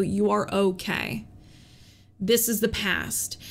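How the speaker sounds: put-on gentle reassurance to a scared child; comforting her younger self. Speaking to her scared five-year-old self, tender. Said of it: "I was just like".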